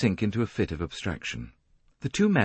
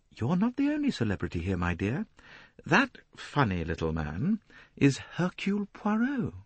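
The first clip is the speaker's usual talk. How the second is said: spoken lightly; 8 semitones higher than usual. A narrator's reading. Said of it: "She had spoken lightly".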